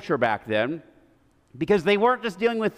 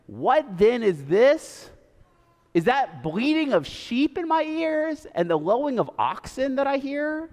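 dry mock question; 6 semitones higher than usual. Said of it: "Samuel has kind of a sense of humor".

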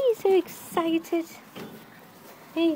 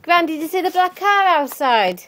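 louder, fast call across the house; 6 dB louder, much faster than usual. Real, not acted. Calling across the house to Gran about the car, loud call. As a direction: call out to Gran so she hears.

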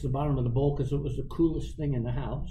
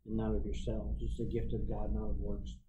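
haunting whisper; 7 semitones lower, 6 dB quieter than usual. Retold or imitated. Verse haunting him at night.

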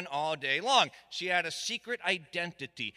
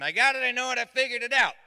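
excited announcement; 5 semitones higher, 6 dB louder, faster than usual. Retold or imitated. Friend bursts in with news.

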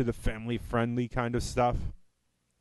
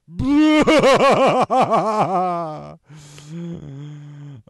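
loud laugh; 4 semitones higher, 8 dB louder than usual. Real, not acted. Big laugh after joke.

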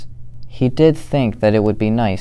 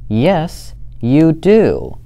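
growled; 6 semitones higher, slower than usual. Acted. Fluffy Bear growling back at Smelly Bear, mock growl. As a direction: snap it back like a cross little bear. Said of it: "growled Big Fluffy Bear".

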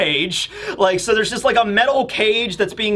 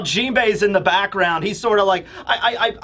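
normal talking voice

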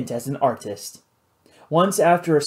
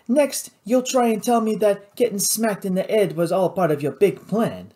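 higher-pitched, sceptical Cajun pirate; sceptical pirate boss; 5 semitones higher than usual. Acted. Louis doubting Nathan's big plan, sceptical. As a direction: challenge him in a raised voice.

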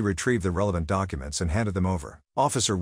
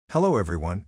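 sickeningly sweet. Acted. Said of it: "in a sickeningly sweet voice".

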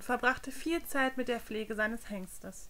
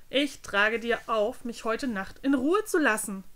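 snapping at him; 4 dB louder than usual. Acted. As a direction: cut him off sharply. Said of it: "fuhr Brandon ihn an".

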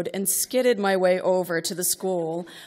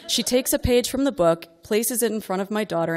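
ordinary talk

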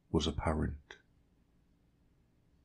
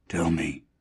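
soft and soothing. Acted. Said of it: "His voice was soft, soothing, as one speaks to a babe".

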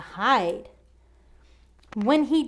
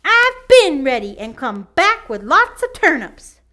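scoffing; 4 semitones higher, 5 dB louder than usual. Acted. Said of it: "scoffed the pig".

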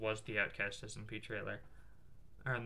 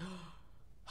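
gasp for air; 6 semitones higher, 15 dB quieter than usual. Retold or imitated. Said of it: "I'll come up for air".

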